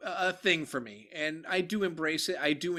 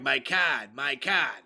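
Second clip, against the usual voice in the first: "card" without the R, said twice, Boston style; Boston accent, "my cahd"; Boston accent, repeated; 3 semitones lower, much slower than usual. Retold or imitated. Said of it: "I had to enunciate".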